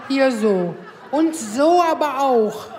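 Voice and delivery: slow, drawn-out whine of a husband; lightly voiced demanding husband; husband's whiny request. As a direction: drag it out like a needy husband.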